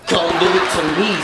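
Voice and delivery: high, loud whiny imitation of her dad; mock plea. Daughter mimicking her father's begging, high and loud. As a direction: parody his desperate begging.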